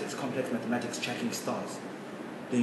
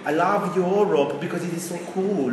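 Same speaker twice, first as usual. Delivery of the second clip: put-on weak German accent, barely there; a half-hearted German accent that keeps slipping; a poorly done German accent; mock German accent; 5 semitones higher than usual. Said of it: "I'm trying to do a German accent".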